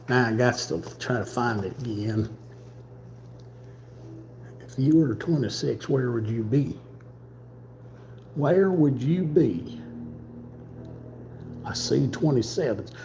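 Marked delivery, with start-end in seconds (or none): 5.9-9.8 slow, drawn-out musing with a mock southern lilt; hint of a teasing southern voice; playful drawl. Searching for a puzzle piece, slow playful drawl. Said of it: "I don't know why I'm talking like this".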